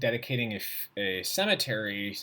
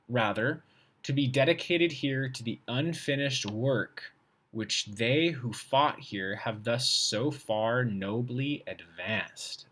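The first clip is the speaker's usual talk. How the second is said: slow, careful read of a hard sentence; reading aloud; slower than usual. Shown as a demonstration. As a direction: pick your way through the old wording.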